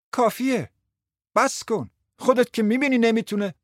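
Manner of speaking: high-pitched cry to stop; shouting. Acted. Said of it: "داد زد". (فریاد با صدای زیر)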